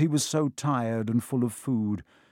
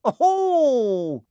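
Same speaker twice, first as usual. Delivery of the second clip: high, loud, drawn-out gleeful cry; evil cackle; 13 semitones higher, 7 dB louder than usual. A narrator's reading. Peeves spotting the first years, evil cackle. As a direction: crow it like a wicked imp. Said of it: "he said with an evil cackle".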